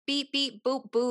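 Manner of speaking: sing-song high beeps; beep code. Shown as a demonstration. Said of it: "like, a little code".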